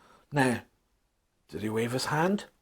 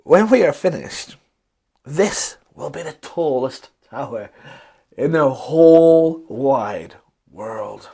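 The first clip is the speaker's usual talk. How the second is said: proud, slowing at the end; thin man boasting of the tower; grinning boast; 5 dB louder than usual. A narrator's reading. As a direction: brag with a grin. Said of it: "grinned a thin man".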